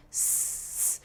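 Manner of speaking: snake hiss. Shown as a demonstration. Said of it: "We say that as a hiss".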